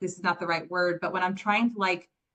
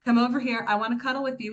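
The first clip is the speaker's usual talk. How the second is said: coaxing mom; 4 semitones higher, faster than usual. Retold or imitated. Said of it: "I'm like".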